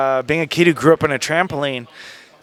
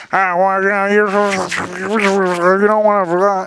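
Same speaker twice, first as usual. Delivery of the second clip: Kevin Dunn voice; 5 semitones higher, much slower than usual. Retold or imitated. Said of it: "Kevin Dunn ... he was like".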